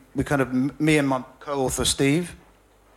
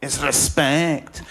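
slow, drawn-out mock gangster demand; imitated Scottish gangster; slower than usual. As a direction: stretch RESPECT out like a gangster. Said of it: "he was all like".

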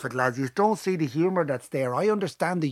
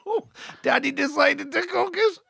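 high, drawn-out mock kids' voice; imitating young sons; 8 semitones higher, slower than usual. Dad retelling what his boys told Mum, high mock child voice. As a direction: play the boys telling on Daddy, slowly. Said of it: "And then the boys went".

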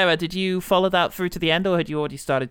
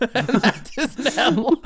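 sock puppet voice; 7 semitones higher, much slower than usual. Pretend.

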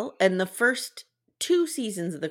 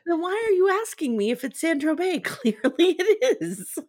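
mock a baffled husband, laughing through it; exasperated quote; 10 semitones higher, 3 dB louder than usual. Husband asking wife why she even asks, mock exasperation. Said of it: "He's like".

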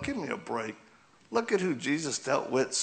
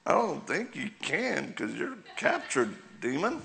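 mock-taunting reply; 4 semitones higher than usual. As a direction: toy with the demon, drawing it out. Retelling his reply to a demon.

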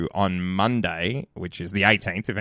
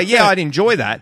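noncommittal polite voice; 9 semitones higher, 6 dB louder than usual. Retold or imitated. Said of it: "So if you say".

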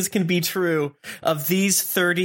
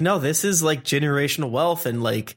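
laughing rant building to shout. Retold or imitated. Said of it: "It's like".

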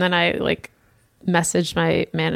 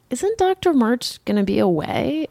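whisper; 5 semitones higher than usual. Retold or imitated. Whispered aside in retold call.

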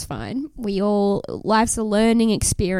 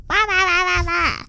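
mocking blah blah; 8 semitones higher than usual. Mocking blather.

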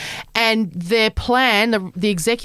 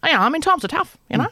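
heartless caller; faster than usual. Retold or imitated.

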